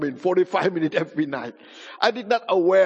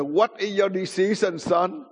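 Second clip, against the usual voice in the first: higher-pitched demand, not yet yelled; imitated stern question; 3 semitones higher than usual. Grandfather questions his sleepy grandson, firm and raised. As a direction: put the question to him firmly. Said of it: "he yelled louder".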